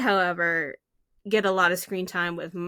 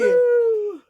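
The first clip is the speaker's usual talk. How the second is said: loud, high, drawn-out woo; excited whoop; 13 semitones higher, 8 dB louder than usual. Real, not acted. Host joins co-host cheering the movie, excited whoop. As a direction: whoop along at the top of your voice.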